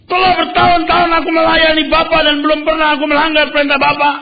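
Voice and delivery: high, loud, fast resentful complaint; angry elder son. Acted. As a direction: rattle off years of grievance at father. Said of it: "Lalu dia berkata begini".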